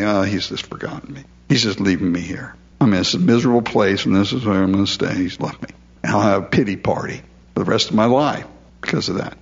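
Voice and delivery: low, self-pitying moan; pity party voice. Retold or imitated. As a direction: mope like someone feeling forgotten. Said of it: "and then you just say".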